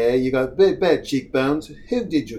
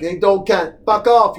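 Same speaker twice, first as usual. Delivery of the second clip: mock Australian captain; 5 semitones higher, 4 dB louder than usual. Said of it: "the British or the Australian accent".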